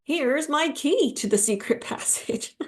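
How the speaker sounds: hammed-up proud helper; mock boastful guy. Friend retelling a book, voicing the smug hero. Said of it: "he's like".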